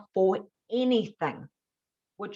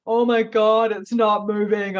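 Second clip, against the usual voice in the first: scared; 3 semitones higher, 8 dB louder, slower than usual. Retold or imitated. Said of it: "And I felt scared".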